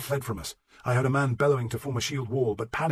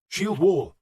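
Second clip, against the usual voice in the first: forceful raised-voice command with a hissing edge; urgent, strained order to the men; hissed order; 7 semitones higher, 7 dB louder than usual. A narrator's reading. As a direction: hiss it out hard, like a battle order. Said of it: "I hissed the order".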